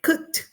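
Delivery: COOKED as one syllable, "kukt"; pronounced with final T. Shown as a demonstration. Teacher showing students the T ending, pronounced with final T. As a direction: end COOKED on a crisp T. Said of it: "con la T".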